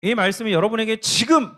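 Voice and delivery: 지금 punched high and loud at the end; emphatic stress on 지금. Real, not acted. Preacher driving the point home to listeners, emphatic stress on 지금. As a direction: repeat it insistently, rising hard onto 지금.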